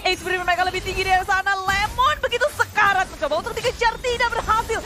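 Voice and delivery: excited. Real, not acted. Rising play-by-play of a chase.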